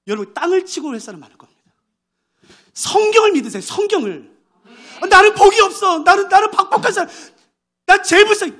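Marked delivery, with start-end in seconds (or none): 5.0-8.5 크게 과장한 신세 한탄; 박복하다 우기는 신자를 흉내 내며 과장된 한탄; mock whining. Mocking self-pitying believer. (과장된 신세타령)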